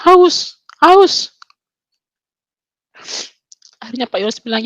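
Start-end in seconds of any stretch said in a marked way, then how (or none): 0.1-1.3 high, loud call for a drink; short raised cries, with a gap between; imitated cry. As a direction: imitate a sick child suddenly crying out.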